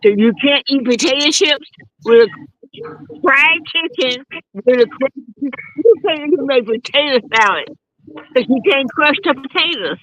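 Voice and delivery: talking without teeth; gummy, toothless speech. Real, not acted. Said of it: "I had a full mouth of teeth and now I don't".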